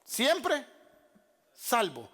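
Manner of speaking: preacher mimicking scoffers' sarcasm; mock sarcasm. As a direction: sneer it like a scoffer. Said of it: "dicen con sarcasmo".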